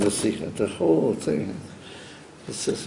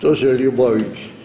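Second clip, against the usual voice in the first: mimicking a Belarusian Yiddish accent. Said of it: "Shmuel Tzalal Altes used to say".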